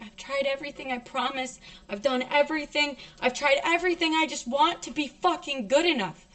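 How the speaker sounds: re-enacted pleading, building in intensity; rising, urgent begging; desperate plea. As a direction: plead as if defending yourself through tears.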